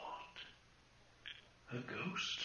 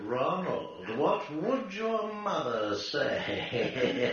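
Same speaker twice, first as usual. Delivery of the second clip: louder, slow scolding mother voice; mocking mother; 5 semitones higher, 7 dB louder, slower than usual. Ghost mimicking Ronald's mother, scolding. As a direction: scold him like his mum.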